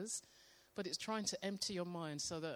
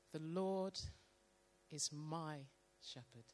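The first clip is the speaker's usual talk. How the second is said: slow reading; slower than usual. Shown as a demonstration. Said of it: "read it very slowly".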